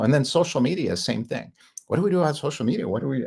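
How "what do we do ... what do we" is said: mock panic. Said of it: "everybody's freaking out 'cause they're all terrified".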